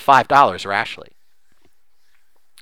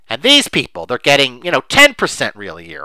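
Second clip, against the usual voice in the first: mock indignation; 4 dB louder than usual. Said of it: "The emotion underneath is".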